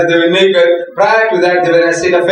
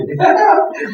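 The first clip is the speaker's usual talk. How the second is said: put-on high giggle of a toddler; imitating child's laugh; 13 semitones higher than usual. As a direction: giggle like a little grandson being found. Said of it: "And he's laughing".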